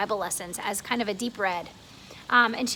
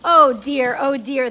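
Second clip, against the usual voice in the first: laughing oh dear; 11 dB louder, slower than usual. Acted. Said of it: "they said".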